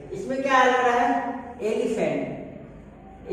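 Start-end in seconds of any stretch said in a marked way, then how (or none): 1.6-3.3 slow spelled-out word. Shown as a demonstration. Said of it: "एलिफेंट आता है ना".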